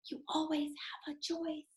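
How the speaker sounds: very soft, hushed inner voice; inner whisper. Acted. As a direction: hush it like a voice in the heart. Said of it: "the one that whispers in my heart".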